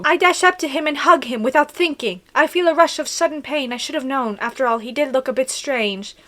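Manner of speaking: put-on British-accented story reading; hammed-up British accent. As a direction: narrate earnestly in a mock-British voice. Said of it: "Let me do a really good British accent".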